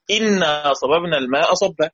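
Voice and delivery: إنا with a clear kasra on the hamza, inna. Shown as a demonstration. Teacher showing Ruwais starting at the verse with إنا. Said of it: "يقف يقول".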